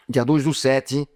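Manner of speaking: "dia dois do sete" spelled out slowly, each word separate; slow, deliberate date. Shown as a demonstration. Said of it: "não fala julho, eu falo julho".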